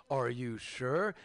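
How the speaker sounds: slow, low, knowing temptation; slow tempting question. Retold or imitated. Bernie slowly tempting, a hint of sly dealer. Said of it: "And then he goes like this".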